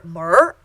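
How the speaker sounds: drawn-out "mer", slow with a clear final r; er sound demo. Shown as a demonstration. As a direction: slowly model the word "mer" for students. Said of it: "this E R sound".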